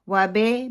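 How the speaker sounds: و بے with the i spread to e; slackened vowel on بے; majhool zer. Shown as a demonstration. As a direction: mimic the mistake "wa-be". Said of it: "بے کو پھر ہم مجہول کر دیتے ہیں".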